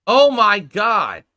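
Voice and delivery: loud, very slow gasp of shock. Real, not acted. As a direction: let the shock hit you. Shocked by the video.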